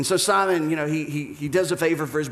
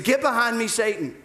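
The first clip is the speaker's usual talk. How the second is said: higher, punchier mock rebuke; raised-voice rebuke; 6 semitones higher than usual. Repeats the rebuke for comic effect.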